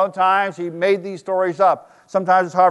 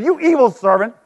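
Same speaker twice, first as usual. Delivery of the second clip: angry king; 3 semitones higher, 3 dB louder than usual. Acted. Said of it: "The king summoned the man and said".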